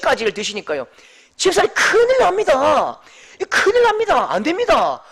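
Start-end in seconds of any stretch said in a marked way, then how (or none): 1.4-3.0 high, loud alarmed plea; pleading with the deacon not to take herbs, urgently; urgent warning. Retold or imitated. 3.4-5.0 even higher, loud alarmed plea; repeating the warning to the deacon, pitch rising; more urgent warning. Retold or imitated.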